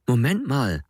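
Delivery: urgent call to stop them; Alex grabbing Nadav's arm, calling out to stop. A narrator's reading. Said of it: "ruft Alex".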